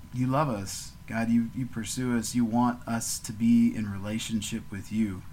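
steady, earnest prayer voice; gentle podcast prayer to God; closing prayer. Real, not acted. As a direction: pray it out slowly and sincerely.

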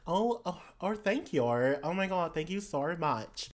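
put-on gushing Australian-accented character; player's character, gushing thanks. Character to shopkeeper receiving package, gushing thanks. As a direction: thank effusively with an Australian lilt.

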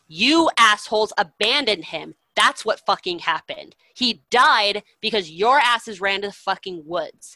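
loud, angry telling-off of cowards; furious rant. Retold or imitated. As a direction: chew the soldiers out, full of scorn. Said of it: "he's just, like, furious".

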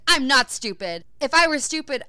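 hammed-up defensive outburst; mock indignant retort. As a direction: act out a stung comeback. Acted retort in quarrel.

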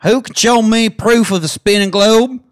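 southern hick reading a rant; hick accent. Pretend. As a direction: read it as an inbred hick. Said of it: "inbred, Hick".

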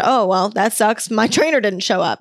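pointed, dry jab at the trainer; the snarky reply she wishes she'd given; sassy comeback. Pretend. To the trainer who no-showed, a sarcastic pointed jab. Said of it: "I didn't say that".

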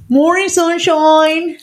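high, drawn-out chirp imitating a friend; teasing, slow singsong greeting; sing-song wake-up call. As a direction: stretch it out like rousing a sleeper. Friend waking the knocked-out speaker.

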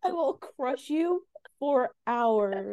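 slow, menacing villain voice; cold rasping evil emperor. Pretend. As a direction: threaten slowly, like a dark lord. Mock-menacing version of the letter.

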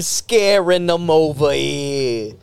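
slow Italian-American wiseguy; Italian mobster ghost. Acted. Comic repeating the ghost bit, Italian mobster voice. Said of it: "Three Italian ghosts".

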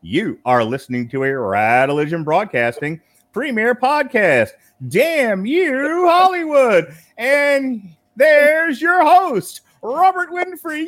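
booming ringmaster announcement. Acted. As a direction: roll up, showman style. Circus-style show announcement.

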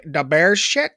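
mock "da Bears" Chicago voice; hammed-up Chicago fan accent. Shown as a demonstration. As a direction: try a thick Chicago accent.

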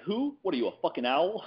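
high, mock outraged bark; Al Pacino quote. Pacino mocking a guy who says who, high mock outrage. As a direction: explode like Pacino in Heat. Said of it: "He's like".

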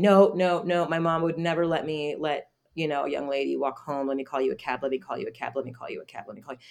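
emphatic start, fading into repetitive pleading; imitated insistence. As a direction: mimic someone who keeps pressing, trailing away. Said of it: "he just kept insisting".

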